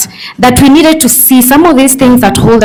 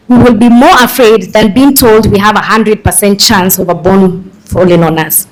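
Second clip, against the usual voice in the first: measured restatement of a tricky point; deliberately slower. Shown as a demonstration. Speaker restating research to the room so they follow, deliberately slower. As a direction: spell it out carefully for the audience. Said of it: "Let me say that slowly".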